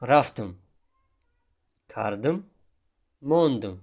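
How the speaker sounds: рафтам, кардым, мондым said word by word, set apart by pauses; colloquial vowels. Shown as a demonstration. Teacher models colloquial forms for students. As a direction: list the street forms slowly. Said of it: "Мисол".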